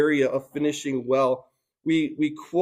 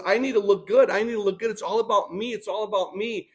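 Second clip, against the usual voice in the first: higher mock voice of a vain king; self-absorbed king voice; 6 semitones higher, faster than usual. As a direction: play it needy, all about me. Preacher voices vain King Saul.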